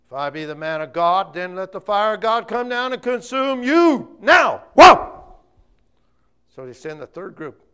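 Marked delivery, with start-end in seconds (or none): 0.1-4.6 high, loud fiery shout; prophet's thunder. Acted. Elijah again calls fire. 4.7-5.1 loud, high rising whoa like fire; whoosh of fire. Acted. Fire falls again.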